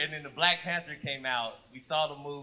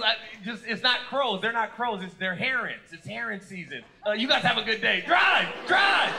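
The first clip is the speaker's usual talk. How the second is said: flustered cop; 4 semitones higher, 4 dB louder than usual. Retold or imitated. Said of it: "he goes".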